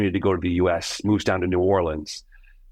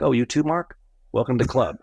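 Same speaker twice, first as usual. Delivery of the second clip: teasing, higher, club-veteran ribbing; mock knowing welcome; 5 semitones higher than usual. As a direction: rib him like a seasoned insider. Entrepreneurs' teasing welcome, acted out.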